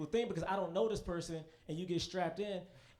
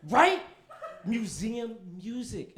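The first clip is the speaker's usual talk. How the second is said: amused disbelief; 5 semitones higher, 8 dB louder, slower than usual. Real, not acted. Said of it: "Why you playing museum music?".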